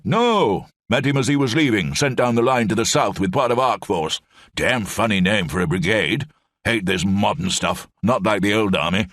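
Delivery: put-on high, hearty old officer rambling on; blustering old brigadier. Old brigadier rambles to Lamb in the cell, high blustering voice. Brigadier grumbles about modern army.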